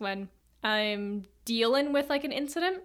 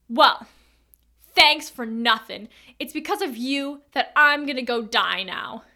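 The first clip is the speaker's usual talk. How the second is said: bitter blame; 6 dB louder than usual. Retold or imitated. Stranger bitterly blames her as retold.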